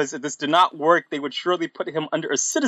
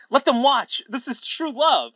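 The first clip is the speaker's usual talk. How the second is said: high-pitched dramatic declaration; mock yell; 9 semitones higher than usual. A narrator's reading. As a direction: proclaim true love in hammed-up passion. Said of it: "Amy yelled".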